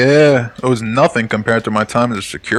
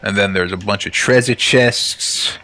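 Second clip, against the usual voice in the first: hint of a Brooklyn accent; light Brooklyn tough-guy accent; 2 semitones higher than usual. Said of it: "Why are you talking like you're from Brooklyn?".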